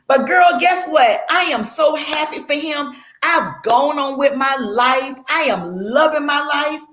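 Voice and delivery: high, emphatic gushing; acted happy. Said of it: "They see you as being happy".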